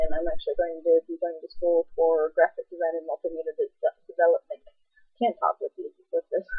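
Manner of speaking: talking through a swollen lip. Real, not acted. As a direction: lip swollen, words a bit thick. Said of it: "My lip is swollen".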